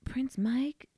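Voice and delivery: hushed secretive whisper. Retold or imitated. Conspiratorial retold persuasion.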